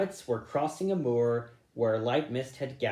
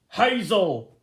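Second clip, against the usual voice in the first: excited call; 8 semitones higher, 9 dB louder than usual. Acted. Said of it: "he gasped".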